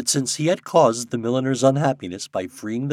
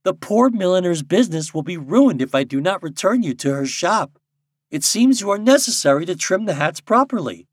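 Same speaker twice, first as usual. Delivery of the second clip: mildly stern, raised Nuke voice; 7 semitones higher, 6 dB louder than usual. A narrator's reading. Popopo losing the argument to the birds, sternly. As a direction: lay down the argument firmly. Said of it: "said Popopo sternly".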